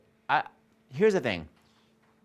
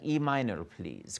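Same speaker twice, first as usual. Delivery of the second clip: request to the pianist; 3 semitones lower, 5 dB quieter, slower than usual. Shown as a demonstration. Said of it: "you can say, like".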